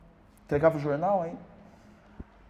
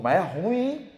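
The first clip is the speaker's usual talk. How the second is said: high, loud scoffing "Mas é ruim, hein?"; mock critic; 7 semitones higher, 8 dB louder, slower than usual. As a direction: scoff like a mocking visitor. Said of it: "Ele falou". (imitando o crítico, alto e zombeteiro)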